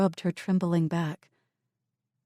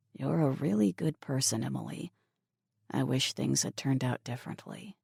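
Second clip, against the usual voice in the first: a hint of a guarded young man; Mason's voice, lowered; 2 semitones lower, 5 dB quieter than usual. Mason speaks to Emily.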